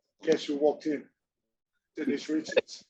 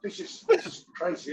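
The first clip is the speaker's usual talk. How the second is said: starstruck; 14 semitones higher than usual. Retold or imitated. Retold starstruck reaction.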